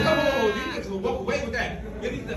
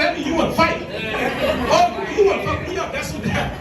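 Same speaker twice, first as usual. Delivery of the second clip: laughing dad challenge; 4 semitones higher, 3 dB louder than usual. Retold or imitated. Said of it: "He mad, he's like".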